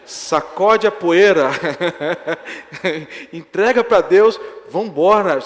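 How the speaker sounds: loud, slow insistence to walk away; urgent loud plea. Retold or imitated. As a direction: urge him loudly to let it go. Urging man away from fight.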